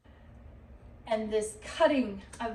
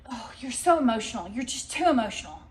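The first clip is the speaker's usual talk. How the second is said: mocking scold; 5 dB louder, faster than usual. Mocking others' criticism.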